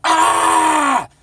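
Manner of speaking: high, loud mock rage scream; retold scream of fury; imitated furious scream. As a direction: shriek like the raging lady. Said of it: "This lady just raged at me".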